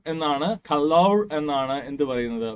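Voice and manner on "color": "color" slowed, with a full -lour ending; British pronunciation. Shown as a demonstration. Teacher repeating the British form for students, "color" with a full second syllable. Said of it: "British accent പറയുന്നത്".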